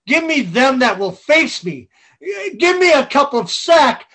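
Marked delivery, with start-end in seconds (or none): 2.6-4.1 shouting. Acted. Falstaff blustering.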